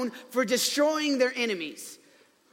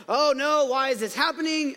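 louder, higher imitation of panicked sailors; mock panic; 3 semitones higher, 3 dB louder than usual. Sailors in a raging storm, mock panic. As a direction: act out a crew freaking out. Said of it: "are freaking out".

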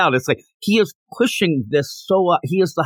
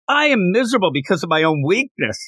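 higher-pitched mock outburst; acted self-centred anger; 5 semitones higher than usual. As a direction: imitate an angry, self-absorbed outburst. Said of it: "when he gets angry like this".

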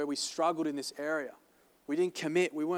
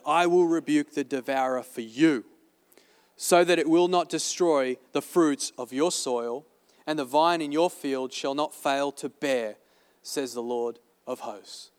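scripture reading. Acted. Reading scripture in sermon, slowed.

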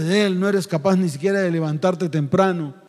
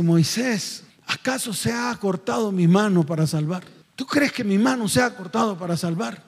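gentle God. Acted. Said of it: "así lo mira así todo lindo".

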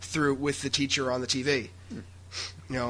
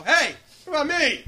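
latecomer voice; 10 semitones higher than usual. Pretend. Latecomer butting into the podcast outro, mock plaintive. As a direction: pop in late, plaintive. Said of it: "and go".

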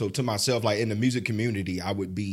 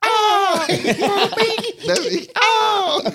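high, loud hype shout; excited shout; 6 dB louder, much slower than usual. Real, not acted. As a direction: yell out with excitement. Hyping up the song.

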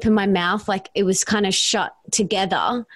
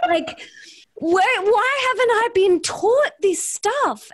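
laughing, pitched much higher; laughing disbelief; 12 semitones higher than usual. Real, not acted. To the host, high laughing disbelief over the book. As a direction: laugh through the question in giddy amazement.

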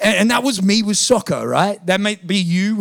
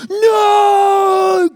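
anguished cry; 14 semitones higher, 5 dB louder than usual. Retold or imitated. Goalie despairing as ball flies.

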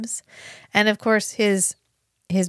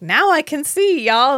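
high, loud comic proclamation; playfully exultant, pitched up; mock triumphant announcement; 6 semitones higher, 5 dB louder than usual. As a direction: announce a fake miracle with glee. Mock miracle announcement, acted.

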